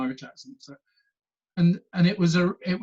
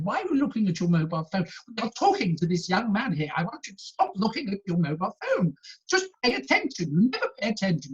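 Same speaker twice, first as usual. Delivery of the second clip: mock telling-off; 5 semitones higher than usual. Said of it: "they had this row".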